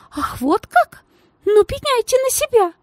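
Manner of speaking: very high, cold threat; lady threatening the girl, high and spiteful; menacing lady. Acted. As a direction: warn her, sharp and spiteful.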